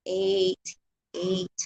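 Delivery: "eight" said with the American slang; loud slangy "eight". Shown as a demonstration. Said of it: "yung slang ba".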